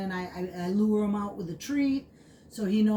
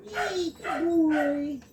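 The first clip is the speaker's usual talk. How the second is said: excited puppy praise; 6 semitones higher, slower than usual. Real, not acted. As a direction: cheer the puppy on.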